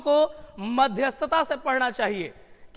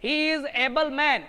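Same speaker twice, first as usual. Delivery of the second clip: each word read out slowly; slow dictation read; much slower than usual. Shown as a demonstration. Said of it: "able पढ़ के देखो". (धीमे-धीमे वाक्य पढ़ना)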